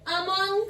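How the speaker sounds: 'among' starting with short 'uh'; schwa pronunciation. Shown as a demonstration. Teacher models the schwa aloud, careful 'among'. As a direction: say uh-MUNG for 'among'. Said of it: "मैं बोल रही हूँ इसीलिए".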